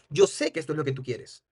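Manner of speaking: "Yo sé que esto es lo que tú quieres" on a low, level tune; flat statement. Shown as a demonstration. Trainer demonstrates an affirmation, "Yo sé que esto es lo que tú quieres" said flat. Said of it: "lo decimos plano".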